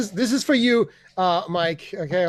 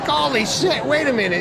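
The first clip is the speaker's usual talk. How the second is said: mock astonishment; 4 semitones higher than usual. Retold shock at the accent.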